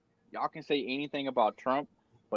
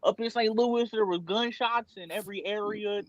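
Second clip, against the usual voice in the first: higher-pitched mock local news report; newscaster voice; 3 semitones higher than usual. Friend mock-reporting local gunshots to podcast mates, newscaster voice. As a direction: report it like a parody field newscaster. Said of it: "I was doing a newscaster voice".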